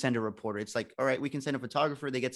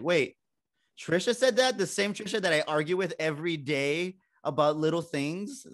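high, loud mock disbelief; incredulous; 6 semitones higher, 5 dB louder than usual. Intern hearing of a rival's praise, incredulous. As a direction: question it as if you can't believe your ears.

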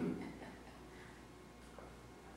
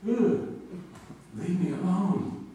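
much higher, slow grumpy pet voice; annoyed dog; 11 semitones higher, slower than usual. Retold or imitated. Dasher the dog telling owner to leave him alone, high and slow. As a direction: voice the dog brushing off his owner. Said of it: "he's like".

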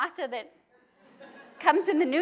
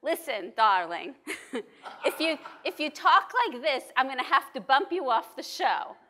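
put-on New York accent. Rabbi mimics the TV producer scolding her, light New York accent. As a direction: imitate a pushy New York producer, half-laughing. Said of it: "she really had a New York accent".

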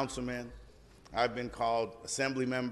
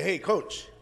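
friendly call; 7 semitones higher, 5 dB louder than usual. Retold or imitated. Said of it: "have them come up and say".

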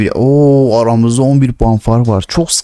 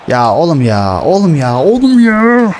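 growing exasperation; 5 semitones higher, slower than usual. Real, not acted. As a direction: build each repeat higher. Frustration at a miss.

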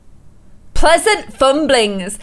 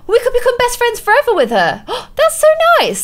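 excited gasp; 8 semitones higher than usual. Real, not acted. Gasping at Sims romance.

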